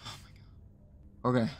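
slow drained whisper. Real, not acted. Player finishing his rant, whispering slowly in exhaustion.

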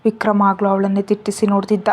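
plain reading voice

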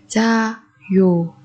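very slow, drawn-out repeat; slow drill. Shown as a demonstration. Teacher to students, very slow drill repeat. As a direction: stretch it out syllable by syllable. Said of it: "teacher repeats word slowly".

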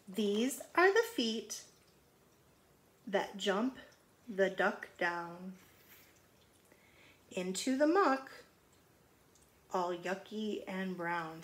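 slow, measured storybook reading; gentle picture-book read-aloud; reading to children. Acted. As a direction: read it out to the kids.

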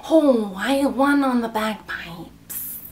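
slow, drawn-out mock Scottish; Scottish accent. Shown as a demonstration. Doing the accent challenge for fans, slow mock Scottish accent.

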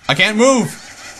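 panicked. Acted. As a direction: stretch "I can't move!" out in rising panic. Frozen by Flowey.

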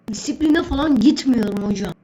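loud stubborn refusal; defiant shout. Acted. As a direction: shout back that you won't go.

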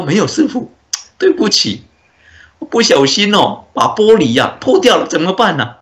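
a hint of a flustered teenager owning up; cute young boy. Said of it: "小朋友很可爱嘛".

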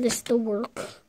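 muttered repeat; quick aside. Shown as a demonstration.

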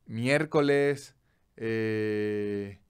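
a touch of prim mom, slow; mild minced oaths like mom; mother's mild curses. Retold or imitated. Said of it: "Mi mamá era".

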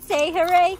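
sobbing hooray; crying hooray. Acted. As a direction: cry out hooray through tears. Forced cheer while crying.

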